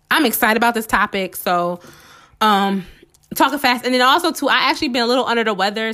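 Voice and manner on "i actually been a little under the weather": ordinary delivery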